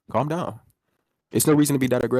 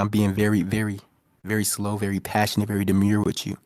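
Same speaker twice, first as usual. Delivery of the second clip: mock sultry; 3 semitones lower, 4 dB quieter than usual. Mock-seducing the frightened debater in a low soft voice. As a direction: tease him with a soft creepy tenderness.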